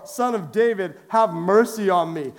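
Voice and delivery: a touch of shouting, refusing to be silenced; crying out. Acted. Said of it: "he cried out all the more".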